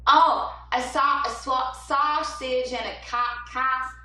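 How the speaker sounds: attempted New Jersey accent. Shown as a demonstration. Singer tries New Jersey for a viewer's comment, attempted accent. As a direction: stumble through a New Jersey "sausage" and "coffee". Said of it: "New Jersey sounds like a".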